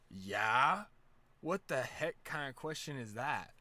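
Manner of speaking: loud, incredulous imitation; mock indignation. Ted answering whether Snoop Dogg is cool, loudly indignant. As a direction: imitate someone affronted by a silly question, loud and slow. Ted scoffs at obvious question.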